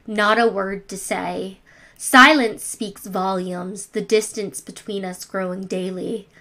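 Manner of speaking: measured, subdued recital with falling line ends; poem reading. Acted. Reads own poem aloud.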